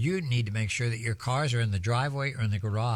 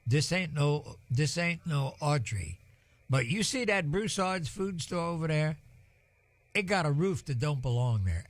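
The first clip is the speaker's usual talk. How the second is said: light imitation of an old Cajun man's accent; 4 semitones higher than usual. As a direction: drop into a bit of Cajun accent, retelling the old man. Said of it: "in his Cajun accent".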